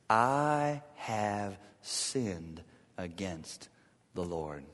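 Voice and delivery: very slow, soft and low; remorseful confession. Acted. David confessing to Nathan, very slow, soft and low. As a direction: confess quietly, broken.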